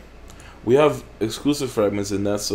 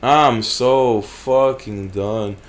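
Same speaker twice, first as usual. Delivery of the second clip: fed up; much slower than usual. Real, not acted. Fed up after loss.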